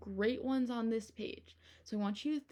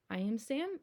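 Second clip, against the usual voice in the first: whisper. Shown as a demonstration. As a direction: breathe the line out in a whisper. Reading line again whispered.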